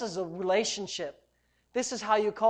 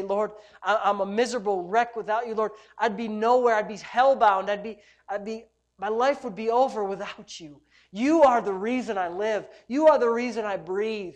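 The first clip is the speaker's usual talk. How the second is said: fervent prayer; 4 dB louder than usual. Shown as a demonstration. Models fervent crying out.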